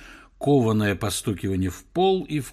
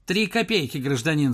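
high hawking call; newsboy shout; 3 semitones higher than usual. Acted. Newsboy yells price at professor. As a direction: sell it like a street boy. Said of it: "закричал мальчишка".

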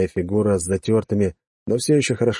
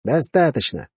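stern officer; 6 semitones higher, slower than usual. Acted. Officer interrupts cadet.

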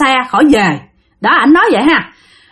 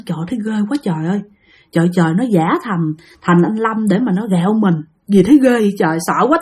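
scared murmuring; 3 semitones lower than usual. Retold or imitated. Helper lying alone after meeting a ghost, scared low murmur. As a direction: murmur it to yourself, spooked. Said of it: "Bạn nằm mà bạn sợ quá trời".

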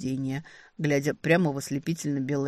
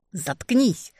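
rude snap; 4 semitones higher, 4 dB louder than usual. A narrator's reading. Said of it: "грубо оборвала я его".

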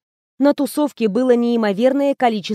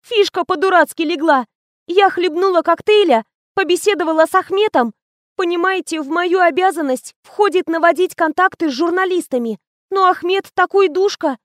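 put-on young assistant gossiping; 7 semitones higher than usual.

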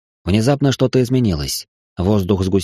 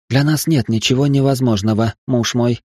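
seductive tone; 3 semitones higher than usual. Acted. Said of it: "обольстительным тоном изрекла Астарта".

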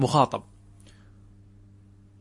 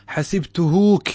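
slow wrong-form demo; 4 semitones higher, 5 dB louder, slower than usual. Shown as a demonstration. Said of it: "لا يجوز".

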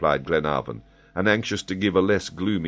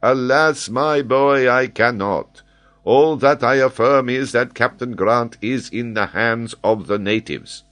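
higher and louder, sorry but firm; a kindly professor breaking bad news; high, earnest, gently grave; Paganel, regretful scholar; 8 semitones higher, 7 dB louder than usual.

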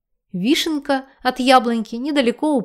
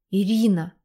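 purring. A narrator's reading. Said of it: "заурчал он взволнованно".

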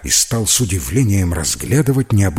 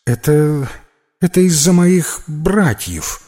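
higher little voice, stammering; embarrassed; 6 semitones higher, 4 dB louder than usual. A narrator's reading. Fabi explains his crying to Max, embarrassed. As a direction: admit it shyly. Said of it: "смутившись".

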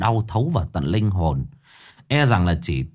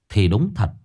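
ordinary delivery

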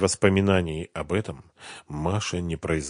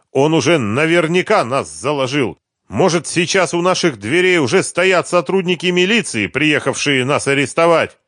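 agitated; 8 semitones higher, 6 dB louder than usual. A narrator's reading. Panicked husband quarrel.

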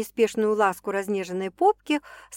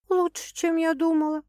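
grumbling; 8 semitones higher than usual. Acted. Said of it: "проворчала Саша".

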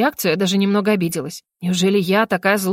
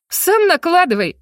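higher, louder, slow angry outburst; boiling over; 9 semitones higher, 4 dB louder than usual. A narrator's reading. Heroine flares up at the lordly mage, angry outburst. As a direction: snap it back, seething. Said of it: "вскипела я".

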